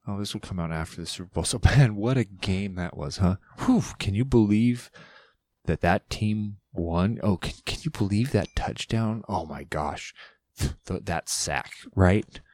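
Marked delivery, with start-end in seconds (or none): 1.4-12.4 hammed-up amazed sports fan; mock game excitement. Host faking reaction to unplayed Super Bowl, mock excited. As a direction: pretend to marvel at the big game. Pretends game has already happened.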